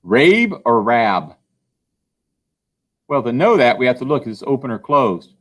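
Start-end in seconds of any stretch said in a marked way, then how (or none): 0.0-1.4 rabe with a long A, then rab with a short A; a slow demo of rabe versus rab; contrasting vowel sounds. Shown as a demonstration. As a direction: slowly set rabe against rab. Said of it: "Is it".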